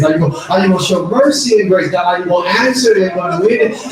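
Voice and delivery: rapid run of questions to God; pleading with God. Retold or imitated. Habakkuk pleading with God, questions tumbling out. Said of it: "He goes from questioning God".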